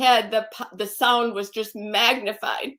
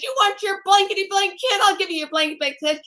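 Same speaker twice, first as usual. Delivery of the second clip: higher, mock snarling taunt, rushed at the end; retold taunt; 7 semitones higher, faster than usual. Husband taunting her before throwing the baby, retold angry taunt. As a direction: throw the abuser's words back with menace. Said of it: "and he said".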